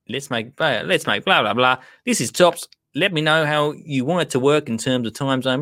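lightly imitated Australian; Australian accent. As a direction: read it out with a hint of Australian accent. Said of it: "No, I will do it".

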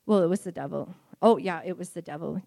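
low mock voice, mimicking those people; mocking impression of people who blame the devil; mocking devil-blamers. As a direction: drop the voice way down and mock them. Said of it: "They blame everything on the devil".

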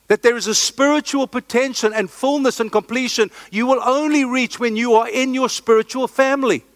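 breathless, rushing preacher; out of breath from preaching fast; hyperventilating. Real, not acted. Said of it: "I'm hyperventilating".

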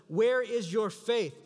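slow, loud rebuke; a slow, searching rebuke; quoting Jesus. Acted. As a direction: lean hard on each word, slowly. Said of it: "He says".

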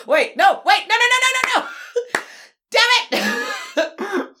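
high rising panicked no no no; frantic, take it back fast; panicked backpedal. Retold or imitated. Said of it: "and I'm like".

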